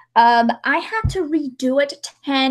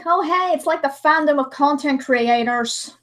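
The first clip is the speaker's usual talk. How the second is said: sarcastic. Retold or imitated. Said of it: "I'm like".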